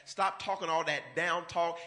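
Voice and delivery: ordinary talk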